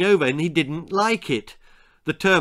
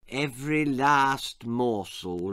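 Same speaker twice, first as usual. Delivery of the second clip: put-on old man's voice; 4 dB quieter than usual. A narrator's reading. Old entomologist answers the boy.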